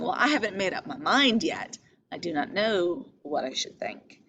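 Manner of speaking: calm, measured, keeping her own counsel; composed, noncommittal reading of Ophelia; undecided. Shown as a demonstration. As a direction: say it as if still weighing it up. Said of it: "I think she's saying".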